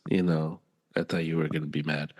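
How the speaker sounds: very soft, low imitation of a hesitant friend; timid excuse. Friend explaining why they held back, imitated timidly. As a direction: backpedal quietly, trailing low.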